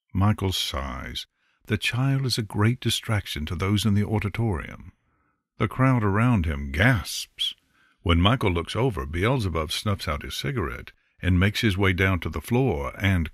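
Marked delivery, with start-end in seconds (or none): none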